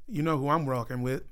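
slightly Canadian-sounding vowels; Canadian accent. Real, not acted. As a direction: slip lightly into a Canadian accent. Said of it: "like I was fucking Canadian".

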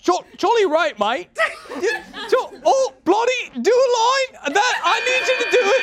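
put-on high-pitched, muddled British-Scottish accent; bad Scottish accent. Comedian flailing for a fallback accent, high mock Scottish. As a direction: squeeze out a botched Scottish brogue up high. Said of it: "it went back to Scottish".

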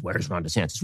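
low, quiet mock chant; low mocking mutter. Mocking trending Twitter chant.

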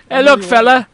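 bad Irish accent, pitched high; Sheamus. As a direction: put on a clumsy, high Irish brogue. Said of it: "does my Irish impression".

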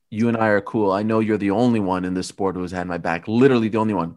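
Leon. Retold or imitated. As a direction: relay his words a little low, in your own accent. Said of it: "because Leon said".

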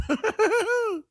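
short, high, mocking laugh; scornful high laugh. Real, not acted. Host ridiculing liberals, a scornful high laugh. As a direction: laugh the opponents off.

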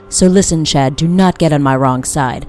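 a touch of menace, pressing each phrase; mild fury. Acted. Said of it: "My fury is vast and murky".

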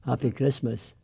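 refined Edinburgh accent. Shown as a demonstration. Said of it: "a tiny wee bit more refined in Edinburgh".

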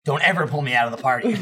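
fast scolding through laughter; laughing scold. Retold or imitated. Player scolding his party leader, quick laughing scold. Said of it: "and I'm like".

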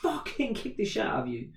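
high, held-back imitation of shouting; mock shouted threat. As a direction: act out his yelling without full volume. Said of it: "shouting and swearing".

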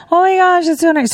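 high, gushing thanks; gushing mom. Retold or imitated. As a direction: squeal it back sweetly. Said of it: "And they just".

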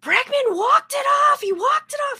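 husband jubilantly yelling the walk-off news; retold yell. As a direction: shout the win like the husband did.

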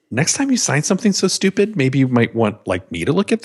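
mock attorney scolding. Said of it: "our attorney looked at that and said".

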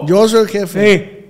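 drawn-out, emphatic claim; slow insistence. Acted. Host repeats that he is the boss, slowly insistent. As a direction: stretch the words to assert authority.

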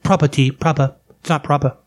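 put-on British girl's "proppa", r dropped; lightly mimicked British pronunciation; mock British accent. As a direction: imitate a fussy British accent. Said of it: "this British girl".

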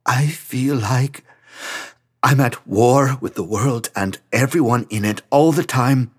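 strained, weepy confession; crying. Acted. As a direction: fight back the tears. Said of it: "Franz had started to cry again".

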